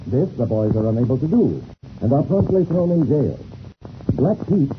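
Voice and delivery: steady announcer's storytelling read; serial recap narration. A narrator's reading. Radio announcer recapping last episode for listeners, narrating evenly.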